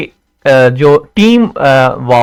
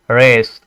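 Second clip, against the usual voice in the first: रेस said low and easy; easy, low-pitched रेस; unstressed, relaxed; 4 semitones lower, much slower than usual. Shown as a demonstration. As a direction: say रेस without pushing it. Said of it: "easy way में".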